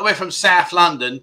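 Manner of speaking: light South London twang; imitated South London accent. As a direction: put on a bit of South London. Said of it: "an accent".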